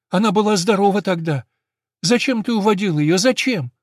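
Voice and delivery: high, loud accusing questions; reproachful boy. Acted. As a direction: demand an answer from grandpa.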